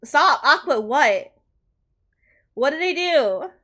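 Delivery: crying, pleading. Real, not acted. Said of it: "Oh, I'm still crying".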